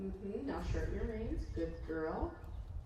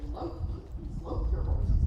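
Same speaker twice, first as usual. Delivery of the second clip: imitating a show announcer; 6 dB louder than usual. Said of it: "hear the announcer say".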